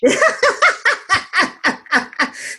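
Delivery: sudden high laugh. Real, not acted. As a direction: burst out laughing. Laughs at "she's a bitch.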